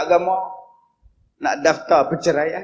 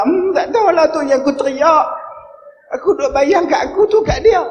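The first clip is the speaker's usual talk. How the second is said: mother's lament; 8 semitones higher than usual. Retold or imitated. Mother explains crying.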